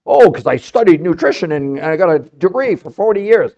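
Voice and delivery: snooty mock voice of the experts; a smug nutritionist parroted with scorn; mocking know-it-all.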